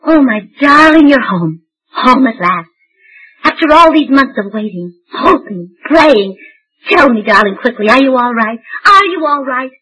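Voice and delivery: hammed-up tearful reunion; melodramatic heroine. Wife greeting her returning soldier, hammed-up and gushing. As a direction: overplay the worried sweetheart. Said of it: "You run the entire gamut of emotions in it".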